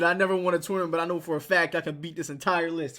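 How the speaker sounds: imitating a mad commenter; mock angry. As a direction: read his heated challenge with force. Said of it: "Why is he so mad".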